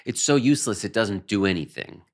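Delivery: put-on exasperated whine of a sceptic. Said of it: "like, exasperated".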